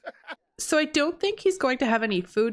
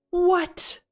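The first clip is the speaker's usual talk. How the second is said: stunned what; 8 semitones higher than usual. Real, not acted. Stunned by sim's death.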